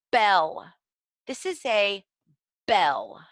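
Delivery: name the picture clearly, landing hard on "bell"; clear enunciation. Shown as a demonstration. Teacher naming a picture card for children, crisp and clear. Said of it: "you might want to say".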